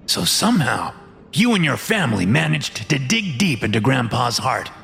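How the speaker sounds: swooping, theatrical villain boss voice; fat man explaining himself. Acted. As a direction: explain it away as a self-justifying boss.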